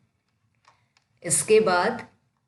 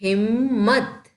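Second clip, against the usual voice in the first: slow reading; slower than usual. Shown as a demonstration. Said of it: "चलो पढ़ो इसे".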